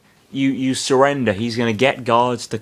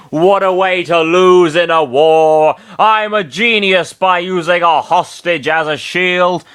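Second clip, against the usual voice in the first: higher, louder villain cackle; maniacal laugh; 6 semitones higher, 5 dB louder, slower than usual. Acted. Bernard gloats over his hostage, maniacal laughter. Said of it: "laughing maniacally".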